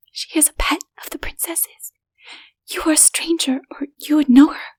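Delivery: high, hushed whisper of a scared woman; frightened woman whispering. A narrator's reading. Stranger's companion warning him, hushed and frightened. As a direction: keep it secret and fearful.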